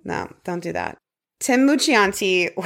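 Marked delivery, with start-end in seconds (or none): 1.4-2.5 slow, drawn-out Italian-style name; hammed-up Italian pronunciation; mock Italian accent. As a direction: savour the name in playful fake Italian. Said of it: "the accent you gave it".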